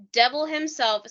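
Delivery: a lightly put-on voice of a grieving father reciting scripture; imitating John Mark Byers. Podcaster acts out a bereaved father's soliloquy for her cohost, lightly voiced. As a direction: read it as his soliloquy, only lightly voiced. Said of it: "That's exactly how he said it".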